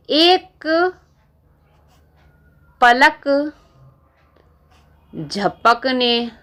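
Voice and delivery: each word spaced with long pauses; slow and drawn out. Shown as a demonstration. Teacher to students, drawn out slowly to show one blink. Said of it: "जैसे हम पलक झपकाते हैं ना".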